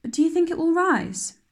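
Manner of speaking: fretful chatter over the cake; a hint of a worried girl fussing over her cake; anxious young girl. Anne chattering anxiously about the cake.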